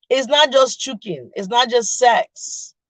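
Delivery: slow, leaning hard on "not" in "It's not just choking" and "It's not just sex"; stress on not. Real, not acted. Host correcting viewers, slowly stressing "not". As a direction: drag it out and punch "not" each time. Spelling out what intimacy is.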